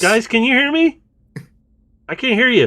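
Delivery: high, loud yell. Acted. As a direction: call it across a noisy room. Yelling over the noise.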